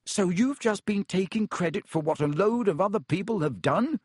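can't believe what he hears; a touch of incredulous boy. A narrator's reading. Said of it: "said Harry incredulously".

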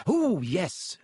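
eager. Acted. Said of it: "said Hermione eagerly".

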